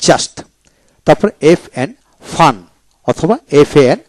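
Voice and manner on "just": "just" said alone as jast; u not pronounced. Shown as a demonstration. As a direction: model "just" with an a vowel and released st. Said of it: "ইউ উচ্চারিত হবে না".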